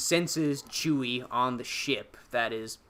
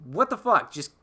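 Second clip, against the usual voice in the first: louder, higher mock frustration; frustrated Kylo; 4 semitones higher, 8 dB louder than usual. Podcaster voicing Kylo calling for Rey, loud mock frustration. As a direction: bark for her, then coax in a hammed-up way. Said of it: "And he's like".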